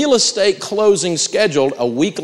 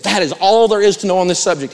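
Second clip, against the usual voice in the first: exasperated staffer, raised a little; frustrated; 4 semitones higher, 4 dB louder than usual. Retold or imitated. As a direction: imitate a worn-down staffer protesting. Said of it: "come in all frustrated and say".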